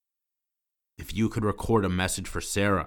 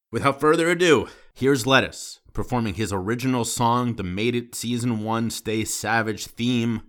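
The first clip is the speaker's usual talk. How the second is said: much higher and louder, showman's intro; grand announcement; 3 semitones higher, 5 dB louder than usual. Real, not acted. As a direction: announce it like the big finale. Host announcing the closing song.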